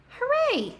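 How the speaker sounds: high joyful hooray; cheer. Acted. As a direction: cheer it out like a happy crowd. Story cheer for baby's birth.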